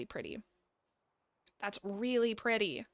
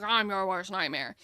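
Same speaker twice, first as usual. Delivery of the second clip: deep, scary mock menace; Mushu; 4 semitones lower than usual. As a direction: drop low to sound like a nightmare. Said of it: "like, deep, scary voice".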